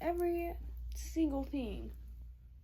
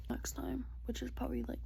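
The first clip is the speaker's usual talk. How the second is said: soft whispered aside; just whisper it; 8 dB quieter than usual. Real, not acted. Planning the next mukbang for viewers, a whisper.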